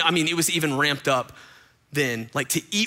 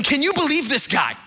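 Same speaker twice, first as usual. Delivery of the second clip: hammed-up disbelief, voice pitched up; indignant Pharisees; 8 semitones higher than usual. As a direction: Pharisees gossiping about Jesus, mock scandalised. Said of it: "they're going".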